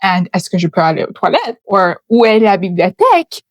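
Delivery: rattled-off tourist French phrases in a light French accent; basic French phrases. Shown as a demonstration. Showing viewers the beginner French she goes beyond, French accent. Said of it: "I only know how to say".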